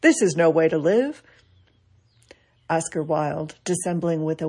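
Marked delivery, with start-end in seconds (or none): 0.0-1.2 louder, emphatic final protest. Retold or imitated. Groucho Marx protesting on his deathbed, loud. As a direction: push back against dying with force. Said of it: "final protest".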